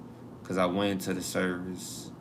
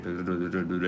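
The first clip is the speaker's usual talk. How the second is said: mock gibberish; faster than usual. Shown as a demonstration. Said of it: "It's gonna be gibberish".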